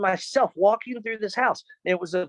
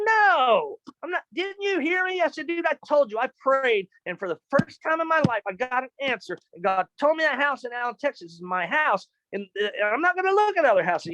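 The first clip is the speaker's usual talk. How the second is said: insistent; 5 semitones higher than usual. Retold or imitated. Insisting to realtor.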